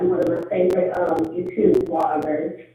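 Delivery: muffled through earbuds. Real, not acted. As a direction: speak muffled, like through a wall. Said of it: "sounds a little, like, muffled".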